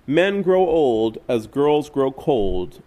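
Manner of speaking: slow, deliberate verse line; slow recitation of a song line; slow recited lyric. Retold or imitated. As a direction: lay out each word slowly. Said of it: "a song says".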